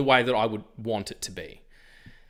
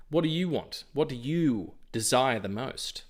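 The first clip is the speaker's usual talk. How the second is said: genie voice; 2 semitones higher than usual. Acted. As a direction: ask like a wish-granting genie. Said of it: "I sound like a genie".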